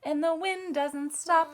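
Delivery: whisper. Shown as a demonstration. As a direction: breathe the line as a whisper. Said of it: "Now you can sing this part with me".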